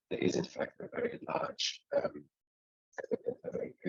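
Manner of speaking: choppy, breaking-up call audio; cutting-out robotic connection. Real, not acted. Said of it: "you sounds like a robot".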